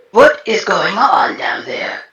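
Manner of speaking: slow whisper over a radio; over the comms. Acted. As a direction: whisper it into your comm link. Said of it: "say over the comms. Excuse me, not yell".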